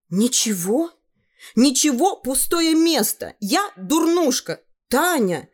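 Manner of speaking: put-on high, slow self-pitying girl's voice; upset girl. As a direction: play a teenage girl sulking about her looks. Upset girl mocking herself. (девочка-подросток обиженно жалуется на себя, высоким голосом)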